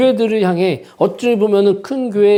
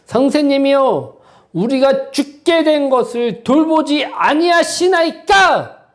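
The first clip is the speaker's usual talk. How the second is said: a slow, lightly raised reading of the disciples' cry; disciples' plea; 5 semitones higher than usual. Acted. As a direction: read the plea slowly, only hinting at fear. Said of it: "그들이 한 얘기가 무엇일까요?". (제자들의 호소를 천천히 약간 높여 읽기)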